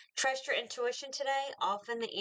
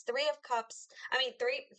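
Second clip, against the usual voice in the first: words jolted by hiccups; 3 semitones higher than usual. Real, not acted. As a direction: still hiccuping while talking. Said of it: "excuse me, got the hiccups".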